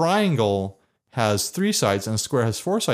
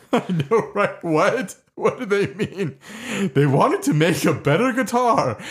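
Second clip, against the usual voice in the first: higher, lightly voiced moon character; 6 semitones higher than usual. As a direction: keep up the moon character, half laughing. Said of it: "I can't hold the voice through that".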